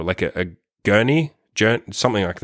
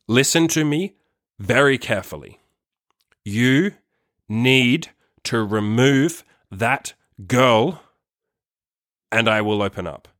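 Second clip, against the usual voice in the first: slow, deliberate words with pauses between; calm, direct, serious; slower than usual. Retold or imitated. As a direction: lay down a measured ultimatum, word by word. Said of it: "very calm but very direct and serious voice".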